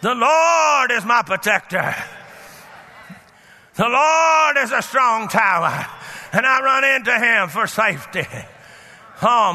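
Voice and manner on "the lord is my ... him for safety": forceful. Shown as a demonstration. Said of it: "I'm forceful with it".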